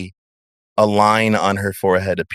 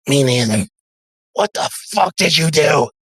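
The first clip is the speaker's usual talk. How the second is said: raised, alarmed goon voice; panicked henchman; 6 semitones higher than usual. Acted. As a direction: demand answers in a rattled voice. Second pinned NPC panics.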